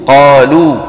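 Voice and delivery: قالوا with a pure final oo; الواو العربية. Shown as a demonstration. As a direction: finish قالوا on a rounded, back oo. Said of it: "شو عندنا". (قالوا بواو عربية خالصة)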